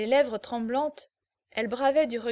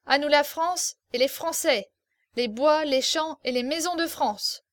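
triumphant toast; 3 semitones higher, 4 dB louder than usual. Acted. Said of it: "et répéta".

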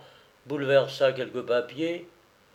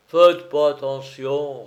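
offhand reassurance; 8 dB louder, slower than usual. Acted. Major dismisses friend's odd behaviour.

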